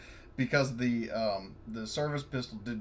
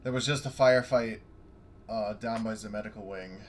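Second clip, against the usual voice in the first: in character to the guard; 6 dB louder than usual. Acted. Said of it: "and I'm saying".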